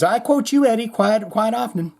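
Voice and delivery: a hint of a raspy rock singer; a rock singer's voice. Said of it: "He says".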